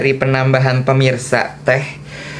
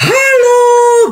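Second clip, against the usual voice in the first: revved-up, throaty, forceful, drawn-out "halo", very high; 6 dB louder than usual. Retelling how Alice greeted people, Alice's forceful throaty 'halo'. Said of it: "Alice langsung ngegas gini".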